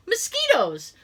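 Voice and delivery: high, exasperated outburst; exasperated cry. Retold or imitated. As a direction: blurt it out, fed up. Complaining loudly about mosquitoes.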